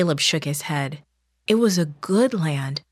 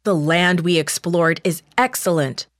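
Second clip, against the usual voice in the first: exclaiming; 3 dB louder than usual. Acted. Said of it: "the two faithful spies exclaimed".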